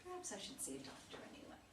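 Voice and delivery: almost afraid to say it aloud; hushed worry. Acted. Mother quietly suggesting a doctor to her daughter, whispered.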